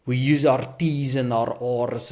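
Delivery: South African accent with marked T's and R's. Shown as a demonstration. Speaker showing how his accent gets mocked, South African accent. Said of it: "it gets mocked 'cause you, like".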